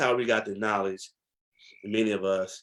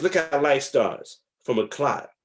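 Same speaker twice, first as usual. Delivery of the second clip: elder's teaching; 5 semitones higher, 3 dB louder, slower than usual. Retold or imitated. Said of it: "he says".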